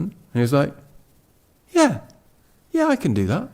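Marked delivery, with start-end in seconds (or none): 1.7-3.5 high, quick eager agreement; eager yes. Retold or imitated. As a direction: jump at the offer, pitched up. Friend eagerly accepts appointment.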